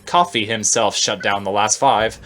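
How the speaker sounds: big game show host delivery; game show announcer. Acted. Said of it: "Alphys in a, um, game show announcer type voice".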